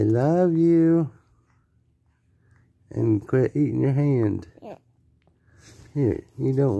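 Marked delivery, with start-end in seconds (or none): 0.0-1.1 put-on higher, slow and sing-song for baby to copy; coaxing demo. Shown as a demonstration. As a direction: model the words gently for the baby.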